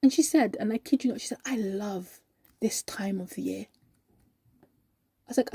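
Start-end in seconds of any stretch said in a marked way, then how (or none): 1.4-3.7 slow, soft, savoured delight; heartfelt sincerity. Acted. Happy colleague confessing love of Christmas, heartfelt. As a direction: say it softly, meaning every word.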